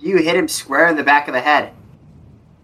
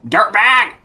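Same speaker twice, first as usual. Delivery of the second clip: creaky greedy chomping chest; 9 semitones higher than usual. Acted. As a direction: bark it like a greedy grumpy dad. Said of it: "I'm trying to mimic his voice right now".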